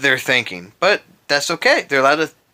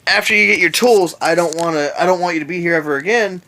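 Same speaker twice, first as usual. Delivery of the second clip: lightly mock a raised-voice telling-off; faster than usual. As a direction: imitate a manager raising his voice a little. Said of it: "he had a raised voice".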